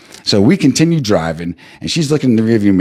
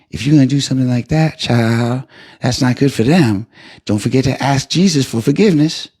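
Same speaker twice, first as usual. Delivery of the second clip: put-on higher, sweet churchy old lady voice; elderly church lady driver; 5 semitones higher than usual. Uber driver greeting her rider, high sweet old lady voice. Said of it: "and she go".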